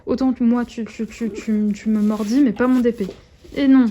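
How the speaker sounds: loud, slowed scolding of the dog; firm but playful reprimand; loud telling-off. Real, not acted. Telling off puppy. (gronde le chiot, fort et lent)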